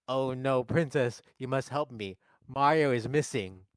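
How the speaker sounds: lightly voiced worried comic impression; mild mock distress; Charlie Day. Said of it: "This is my Charlie Day impression".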